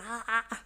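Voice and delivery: repeated mock "ah"; imitated cries. Host shows how he was at night, imitated cries. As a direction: mimic him with a run of "ah"s. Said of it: "s'il était comme ça".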